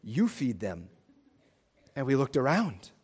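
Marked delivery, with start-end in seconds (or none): 0.0-0.9 much lower and softer, a calm charge; Jesus instructing quietly. Retold or imitated. Peter recalling Jesus' charge, low and quiet. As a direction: hand them the burden gently. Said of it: "he looked at us and said".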